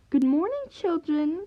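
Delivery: calling out. Acted. Magpie calling out to pupils as new teacher. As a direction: call out to the whole class. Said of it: "calls the magpie".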